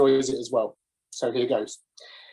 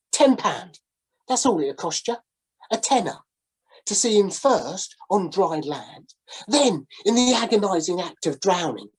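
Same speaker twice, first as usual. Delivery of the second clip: sailor's sales pitch; 3 semitones higher than usual. Acted. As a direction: savour each grim detail like a showman. Sailor voiced in story.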